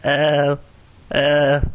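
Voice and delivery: drawn-out, bleating little ow; sheep-like ow. Real, not acted. Streamer hurting in game, sheep-like ows. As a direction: let each ow come out like a sheep. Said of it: "I sound like a sheep".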